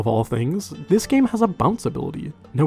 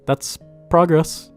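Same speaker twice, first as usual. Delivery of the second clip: slow, dry deadpan sarcasm; sarcastic; much slower than usual. Real, not acted. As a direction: drag it out mockingly. Dry sarcastic remark on game.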